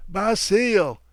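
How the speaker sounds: high piercing shriek of the name. A narrator's reading. Wife shrieking for her husband in the dark, terrified scream. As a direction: scream his name in panic. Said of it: "she shrieked".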